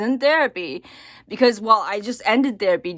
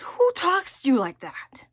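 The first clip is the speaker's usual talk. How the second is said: whispered quote; 6 semitones higher than usual. Retold or imitated. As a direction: breathe the question as a hushed whisper. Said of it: "my therapist says".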